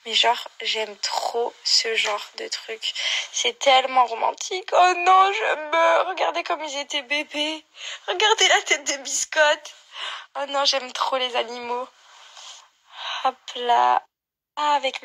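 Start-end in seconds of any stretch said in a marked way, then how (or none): 4.7-8.8 excited squeal. Real, not acted. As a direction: burst out as if melting at the cuteness. Gushing over cute baby photos.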